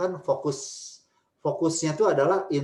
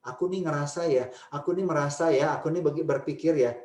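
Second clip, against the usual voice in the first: gentle I-statements. Shown as a demonstration. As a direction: open up gently about yourself. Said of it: "itu lebih menolong".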